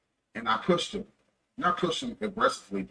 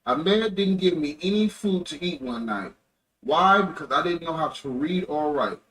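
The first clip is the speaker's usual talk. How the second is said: louder story narration; reading aloud; 6 dB louder than usual. A narrator's reading. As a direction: read out a page of a memoir. Reads a page aloud.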